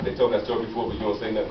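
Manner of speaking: low, quiet thinking to yourself; inner thought. Retold or imitated. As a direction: congregant silently thinking while a story repeats, quiet low aside. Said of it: "you say to yourself".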